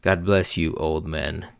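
first try at her snide send-off, at normal level; a snide blessing tossed at older men, trying it out; mock polite blessing. Girl leaving the bar mocks the older men, snide blessing. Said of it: "how did she say it?".

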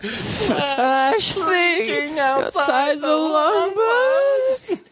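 very high, very slow, laughing; silly high drawn-out. Pretend. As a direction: stretch it out in a squeaky laughing voice. Mimicking outro in silly voice.

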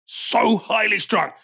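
So highly strung, drawn out slowly with weight on so; slow emphatic repeat. Shown as a demonstration.

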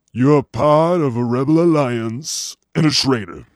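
Darth Vader. Acted. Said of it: "if I can do Darth Vader".

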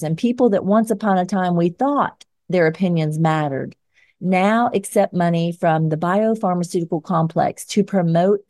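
firm, measured editorial read; scripted commentary read. Acted. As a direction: read it like an op-ed segment. Reads scripted closing commentary.

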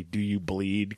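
put-on low, soft Boston accent line; a light Boston accent, menacing; Ben Affleck Boston accent. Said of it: "he's got just enough of the Boston accent".

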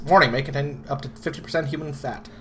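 put-on old-time radio announcer; vintage ad read, sing-song; old-timey voice. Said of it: "I'm the one speaking in an old-timey voice".

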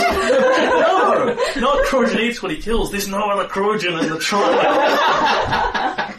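high-pitched, insistent crowd voice; exasperated onlooker. Acted. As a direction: argue as a bystander setting gossip straight. Crowd argues over who lost.

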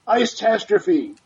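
drawn-out trailer title announcement; movie trailer voice. Acted. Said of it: "in my movie trailer voice".

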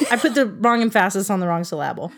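"emphasis" as em-FASS-is, "syllable" as sil-LAB-le; joke misstressing. Shown as a demonstration. Owning up to a misread question, comically misstressing "emphasis" and "syllable". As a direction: shift the stress to second syllables in "emphasis" and "syllable".

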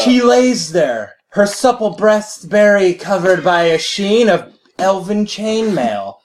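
slow, hammed-up storybook narration; mock fantasy narrator. Mock narrating the elf queen's bedroom to a friend, slow and hammy. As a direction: drag it out like a cheesy erotic fantasy novel.

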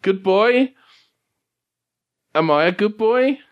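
high-pitched talking dog; Sergeant Papa. Acted. Game master voices dog rousing Larry, high and pleading. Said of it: "hear Sergeant Papa say".

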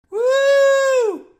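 very high, loud whooping howl. A narrator's reading. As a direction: howl out of the car window. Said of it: "stuck his head out the window and howled".

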